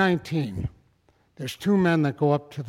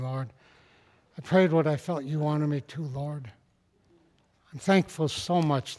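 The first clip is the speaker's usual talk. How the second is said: prayer. Acted. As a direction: pray over the congregation. Closing prayer.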